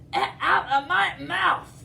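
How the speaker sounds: high, strained cry; pained dinosaur. Acted. T. rex begging Edna out, high pained cry. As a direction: wail to get her out.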